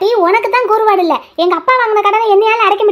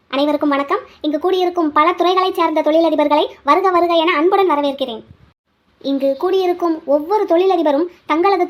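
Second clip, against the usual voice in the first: formal stage announcement; 2 semitones lower than usual. Acted. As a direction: address the hall of businessmen formally. Formal award ceremony address.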